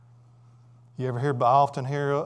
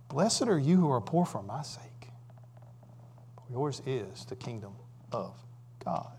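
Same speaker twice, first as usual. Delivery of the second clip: whispered scripture; 7 dB quieter than usual. Acted. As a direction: whisper "Blessed are you who are poor" fully. Quoting Jesus' beatitude softly.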